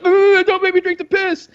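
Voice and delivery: high, loud mock whimper; mock pleading. Friend imitating the victim of the prank, mock pleading. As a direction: beg in a hammed-up high voice. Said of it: "And then he's like".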